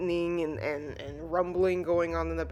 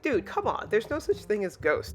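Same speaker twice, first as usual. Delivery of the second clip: higher, dismissive exasperation; retold annoyance; 4 semitones higher than usual. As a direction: imitate an annoyed boy brushing off fear. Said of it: "Damien gets annoyed at him".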